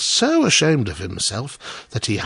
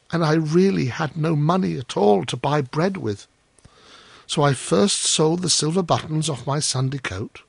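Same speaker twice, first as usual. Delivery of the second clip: higher-pitched, humble little gardener; Hans; 6 semitones higher than usual. Acted. Hans confessing he sold his belongings, humble. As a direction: explain apologetically, ending hopeful.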